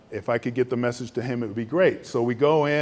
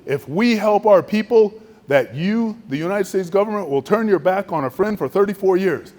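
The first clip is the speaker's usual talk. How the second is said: much higher and louder, accusing; bitter angry outburst; 7 semitones higher, 7 dB louder than usual. Retold or imitated. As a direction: hurl the betrayal back at him. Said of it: "and he goes".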